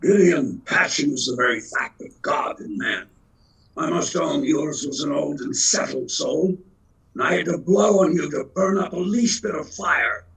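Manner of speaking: recited stage speech, a touch grander; quoting Frederick March as God speaking to Gideon, lightly theatrical; reciting God's line. Retold or imitated. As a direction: declaim God's words with measured weight. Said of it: "he says".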